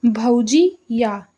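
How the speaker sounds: drawn-out, slow reading of भौजी या; slow, drawn-out example read by a teacher. Shown as a demonstration. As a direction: say भौजी या slowly, each syllable stretched out. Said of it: "जैसे कि देखिए".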